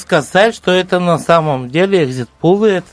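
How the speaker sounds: put-on lilting Odessa accent. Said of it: "с одесским акцентом стали разговаривать".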